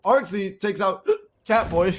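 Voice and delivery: hiccup cutting into the line; a sudden hiccup mid-sentence. Real, not acted. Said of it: "I had the hiccup".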